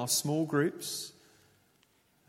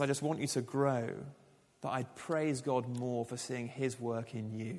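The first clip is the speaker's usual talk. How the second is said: plain, earnest quote of Paul; sincere true version. Retold or imitated. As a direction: say it simply and sincerely. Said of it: "No, he goes".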